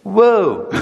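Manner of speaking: high, loud amazed gasp of a word; be stunned as the storm stops; amazed whoa. Retold or imitated. Watching Jesus calm the sea, a loud high amazed whoa. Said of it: "And I'm like".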